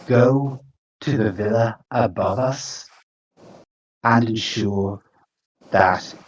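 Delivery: lightly voiced ominous creature, measured with long pauses; imperious creature. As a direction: issue commands as a grand, ominous being. Creature warns and commands players.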